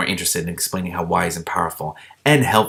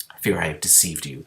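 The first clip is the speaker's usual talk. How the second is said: tragic; 4 semitones lower, 6 dB quieter than usual. Acted. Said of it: "the princess said tragically".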